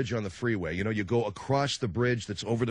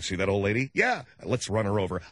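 mock menacing joke; 4 semitones lower than usual. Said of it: "I play that game with the kids".

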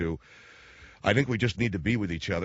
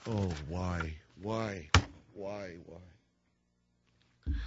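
mock anguished wail; 6 dB quieter, much slower than usual. Anchor wails over Leno news.

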